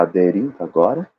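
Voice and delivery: "aderindo agora" set apart with a questioning rise; marked intonation. Shown as a demonstration. Salesperson nudging a customer toward yes, "aderindo agora" marked by intonation. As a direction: mark "aderindo agora" as an embedded cue, lifting at the end. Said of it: "aderindo agora eu fiz com uma entonação".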